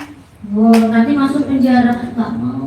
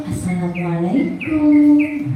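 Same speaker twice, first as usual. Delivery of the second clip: slow, higher sing-out greeting; voiced teacher greeting; 4 semitones higher, slower than usual. Teacher entering the room, slow drawn-out greeting. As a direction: lightly draw out a salaam as the teacher. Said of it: "Terus ada ustadzah masuk".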